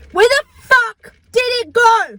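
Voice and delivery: high, loud exasperated question; baffled outburst. Acted. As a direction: throw the question up in disbelief. Baffled at vanished clothes.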